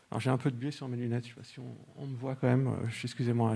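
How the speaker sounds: muffled, talking through a face mask. Real, not acted. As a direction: speak as if behind a face mask. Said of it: "j'ai pas l'habitude de parler avec un masque".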